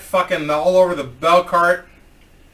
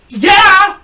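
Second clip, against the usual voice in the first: very high, loud mock yell; hammed-up high-pitched outburst; outraged customer; 10 dB louder than usual. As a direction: screech it back indignantly. Outraged customer answers back.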